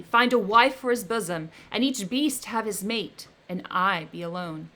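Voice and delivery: loud, menacing creature; the creature threatening his maker, loud; vengeful threat. Acted. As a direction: vow revenge with rising menace. Creature threatens Victor with revenge.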